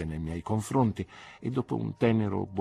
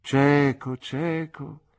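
aunt repeating firmly; 7 semitones higher, 7 dB louder, much slower than usual. Acted. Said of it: "disse di nuovo".

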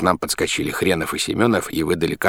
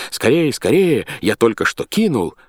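high, hurrying call; urgent cry; 6 semitones higher, 4 dB louder than usual. A narrator's reading. Bathhouse gentleman hurries newcomers inside, crying out. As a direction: call them in urgently, pitched up. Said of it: "господин и крикнул".

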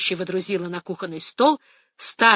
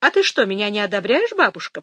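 raised voice; 5 dB louder than usual. Acted. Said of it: "повысила голос Джастина".

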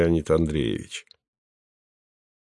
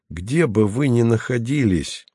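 patiently; 2 semitones higher than usual. Acted. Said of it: "сказал он терпеливо".

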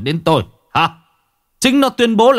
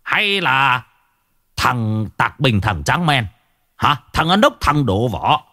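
scornful husband, rising higher as he goes; angry challenge; 3 semitones higher than usual. Acted. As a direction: demand proof in a heated tirade. Husband angrily argues with wife. (chất vấn vợ gay gắt)

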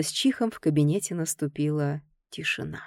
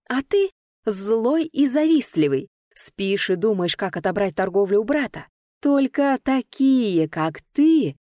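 higher, slow angry bark; 3 semitones higher, 4 dB louder than usual. Acted. Heroine barking accusations at Ganer, poking his chest. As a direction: snap each accusation at him. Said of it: "рявкнула".

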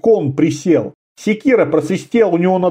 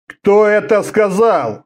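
barked question; 4 semitones higher, slower than usual. Acted. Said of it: "рявкнул Орда".

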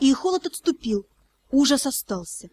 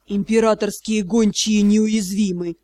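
disbelieving; 4 semitones lower than usual. Acted. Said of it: "медленно, словно не веря увиденному".

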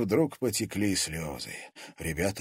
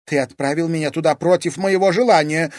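high, loud outburst of protest; exclaiming; 8 semitones higher, 9 dB louder than usual. Acted. Daughter protesting to her father, loud exclaim. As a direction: throw it at him, hurt and loud. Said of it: "воскликнула Дельфина".

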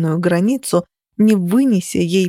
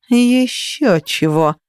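slow, higher mock growl; 4 semitones higher, much slower than usual. A narrator's reading. Rival growls a refusal at the heroine. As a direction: sneer it back as a growl. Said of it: "прорычала она".

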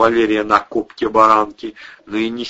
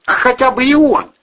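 higher, loud nagging woman's voice; angry housewife berating drunk tenants, higher; scolding landlady; 9 dB louder than usual. A narrator's reading. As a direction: tear into the lazy lodgers. Irina accuses Vovka.

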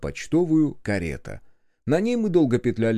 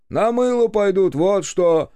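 higher, louder, scornful retort; scornful snort; 9 semitones higher, 6 dB louder, slower than usual. A narrator's reading. Officer tells Lestrade the dogs' fate, scornfully. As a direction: toss it off with a snort. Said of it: "хмыкнул тот".

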